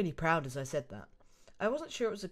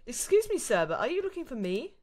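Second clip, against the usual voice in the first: Ashley voice; 5 semitones higher, 4 dB louder than usual. Acted. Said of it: "an Ashley voice".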